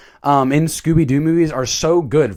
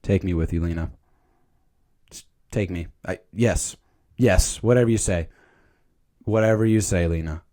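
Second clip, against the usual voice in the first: lovestruck swoon; 9 semitones lower, 6 dB quieter than usual. Acted. Swooning over Lena, lovestruck.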